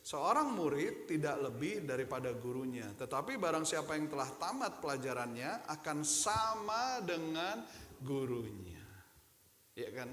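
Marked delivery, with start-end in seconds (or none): 0.0-8.8 reading aloud together. Acted. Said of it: "bisa baca sama-sama. Satu, dua, tiga".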